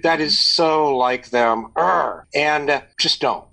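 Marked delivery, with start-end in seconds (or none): 0.0-1.7 slow, drawn-out griping; mock exasperation. Mock venting about co-parent. 1.8-2.2 mock groan of exasperation; exasperated groan. Mock venting about co-parent.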